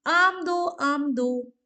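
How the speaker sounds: mock child's shout, high and loud at first; acted child's yelling. Teacher voices a child demanding mangoes, shouting loudly. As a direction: yell out a demand like a child, easing slightly. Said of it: "ये जोर जोर से चिल्ला रहा है".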